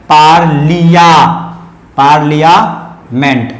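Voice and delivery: पार्लियामेंट slowly in parts, paar-liya-ment; syllable-by-syllable model. Shown as a demonstration. Teacher breaks the word up for students, syllable-by-syllable model. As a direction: draw out पार्लियामेंट piece by piece. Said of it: "इसे पढ़ते हैं पार्लियामेंट".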